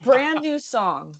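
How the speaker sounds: high-pitched, laughing protest. Real, not acted. Co-host cracking up over the band's song, laughing. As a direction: get the words out through giggles.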